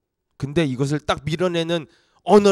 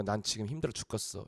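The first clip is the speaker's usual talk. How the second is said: much softer, weary moan; self-pitying moan; 7 semitones lower, 17 dB quieter than usual. Retold or imitated. A worn-out believer moaning softly to themself. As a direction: sigh it like you've given up.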